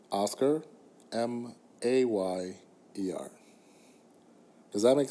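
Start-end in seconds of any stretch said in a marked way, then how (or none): 0.1-3.3 Oscar then M A Y E R spelled slowly letter by letter; spelling it out. Shown as a demonstration. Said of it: "Oscar Mayer is spelled".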